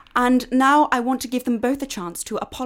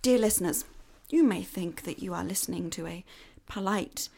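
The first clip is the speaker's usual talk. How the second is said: stern schoolmistress; 4 semitones lower, 6 dB quieter than usual. Acted. Miss Waite addresses listeners theatrically.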